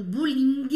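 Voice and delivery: bowling with the final G sounded; G pronounced. Shown as a demonstration. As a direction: say bowling as written, audible G at the end. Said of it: "e fala o G". (bowling com o G final pronunciado)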